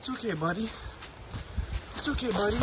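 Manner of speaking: soft, gentle reassurance; calm a nervous animal quietly; soothing. Real, not acted. Runner to escaped emu, softly soothing.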